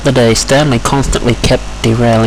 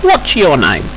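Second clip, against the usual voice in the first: courteous, higher-voiced question; polite; 6 semitones higher, slower than usual. Rusty asking the new engine's name, polite. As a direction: ask a newcomer kindly. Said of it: "greeted Rusty politely".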